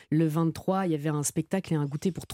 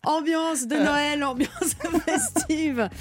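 festive; 9 semitones higher, slower than usual. Acted. Festive welcome with laughter.

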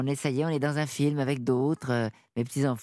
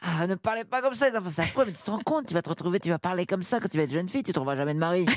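lightly voiced mother scolding the kids; mother correcting the children's accent, mildly mock-shocked; 3 semitones higher, faster than usual.

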